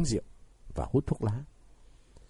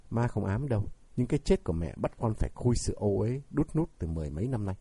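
usual speaking voice

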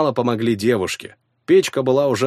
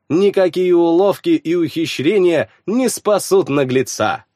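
haughty sorceress; 5 semitones higher than usual. Acted. Witch addresses the crowd.

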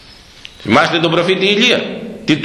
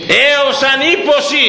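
much higher, slow, changed voice for the prophet; prophet's solemn oath; 13 semitones higher than usual. Retold or imitated. Preacher acting Elijah vowing no rain until he says, high and slow. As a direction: declare it slowly as Elijah swearing to God.

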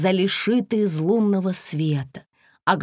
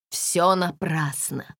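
moaning; 3 semitones lower, slower than usual. Acted. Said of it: "простонал принц Теодор".

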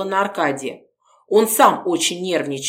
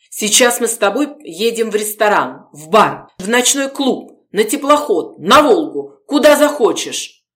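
louder, higher, carried away with plans; eager persuasion; 4 semitones higher, 4 dB louder than usual. Acted. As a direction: sweep her along with big promises. Gorodetsky excitedly persuading Polina.

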